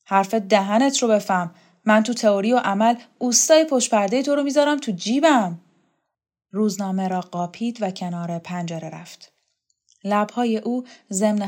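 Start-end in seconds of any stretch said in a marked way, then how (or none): 0.0-5.6 mildly heated boasting retort; acted indignant comeback; defiant woman in a quarrel. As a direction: answer back with swaggering emphasis.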